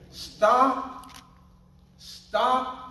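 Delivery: high, loud repeated command; emphatic stop. Real, not acted. Preacher begs the congregation, high and loud. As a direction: plead with them to quit.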